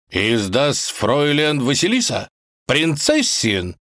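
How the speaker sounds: lightly hammed-up German waiter; polite foreign waiter; German-accented waiter. German waiter addresses Vasilisa.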